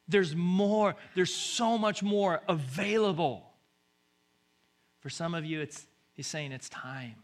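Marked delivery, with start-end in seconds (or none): 0.1-3.5 loud, high, stretched-out proclamation; rousing promise. Acted. God promises so much more to the congregation, rousing. Preacher builds God's promise. 6.5-7.1 soft, quiet nudge; near-whispered call to act; hushed prompting. Acted. God tells the waiting it is time, hushed. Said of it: "he's whispering in your ear".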